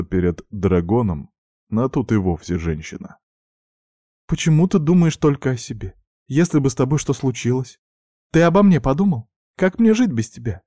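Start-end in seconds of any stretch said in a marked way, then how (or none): 4.3-10.6 much higher, louder anguished plea; rising toward tears; distraught. A narrator's reading. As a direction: sister pouring out her fear for him. Sister's tearful reproach.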